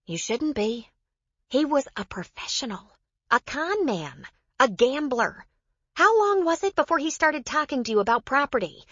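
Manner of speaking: high-pitched woman, pressing her point; Joe, emphatic. Acted. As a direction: raise the voice high and insist, point by point. Narrator voices Joe in dialogue.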